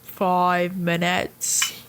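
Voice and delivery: slow, low announcer voice; drawn-out loudspeaker call; PA announcement. Retold or imitated. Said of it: "the P A is like".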